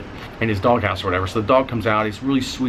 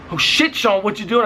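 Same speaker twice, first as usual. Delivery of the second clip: panicked wife; 10 semitones higher than usual. Retold or imitated. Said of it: "She's like".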